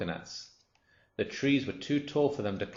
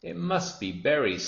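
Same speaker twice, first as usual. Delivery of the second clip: high, lilting storybook guess; lightly voiced chirpy bird; singsong bird; 7 semitones higher than usual. A narrator's reading. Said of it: "sang the roly-poly bird".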